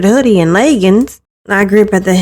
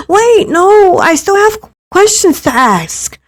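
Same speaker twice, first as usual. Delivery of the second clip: much higher, urgent cry of alarm; sudden panic; 9 semitones higher than usual. Acted. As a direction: stop her before she goes. Stream ending, she panics.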